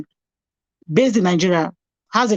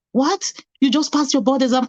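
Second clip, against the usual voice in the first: surprised; 6 semitones higher than usual. Retold or imitated. Friend hears of passed exam.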